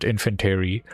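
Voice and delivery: infantry as "in-fin-TERRY"; odd pronunciation. Shown as a demonstration. Player quoting own slip, infantry as "in-fin-TERRY". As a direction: stretch infantry's ending into "terry". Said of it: "I don't know why I called it".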